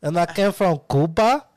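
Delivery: put-on slow, high Cuban accent, drawn out. Presenting his Cuban character, slow and camp. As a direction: lean into a slow Cuban lilt. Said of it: "That's my character".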